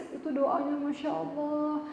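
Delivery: teary, awed churchgoer explaining her tears; moved worshipper. Retold or imitated. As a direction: relive how the prayer touched them. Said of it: "saya tanya, "Yang nangis kenapa nangis?".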